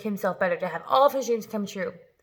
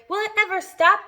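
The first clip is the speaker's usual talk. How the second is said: high, loud excited shout; 10 semitones higher, 7 dB louder than usual. A narrator's reading. Aunt shouts at the swelling peach, high and loud. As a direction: shout it out with glee. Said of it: "Aunt Sponge shouted".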